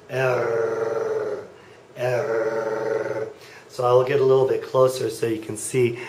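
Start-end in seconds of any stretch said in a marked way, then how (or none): 0.1-3.3 "err" rasped way back in the throat, tongue still; throaty r. Shown as a demonstration. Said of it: "So it'll sound like this".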